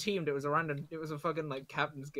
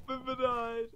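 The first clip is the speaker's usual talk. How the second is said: loud sharp voice; 9 semitones higher, slower than usual. Real, not acted. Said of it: "Why are you yelling?".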